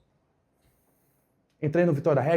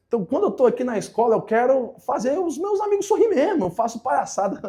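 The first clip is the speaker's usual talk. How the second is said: imitating the boy; 8 semitones higher than usual. Pupil's voice retold, rising emotion.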